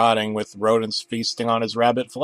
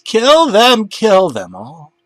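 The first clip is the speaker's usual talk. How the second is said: higher, louder command; commanding cry; 9 semitones higher, 7 dB louder, slower than usual. Acted. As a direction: urge him to kill. Demon commands murder.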